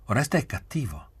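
mild, high plaintive moan; whining moan. A narrator's reading. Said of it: "mugolò".

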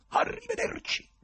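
congedo secco e acuto; saluto secco. A narrator's reading. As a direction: taglia corto con un saluto stizzito. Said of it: "disse seccamente". (secco, tagliente)

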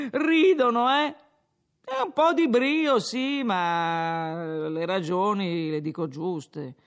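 put-on a drunk lecturing the innkeeper, pleased with himself; slurred tavern speech, rising as he goes; drunken Renzo.

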